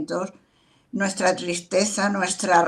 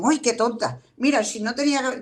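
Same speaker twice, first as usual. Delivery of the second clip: mock flustered woman; 4 semitones higher, faster than usual. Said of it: "cuando dicen".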